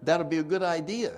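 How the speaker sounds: shocked newcomer questioning his sponsor; incredulous what. Retold or imitated. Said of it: "I said".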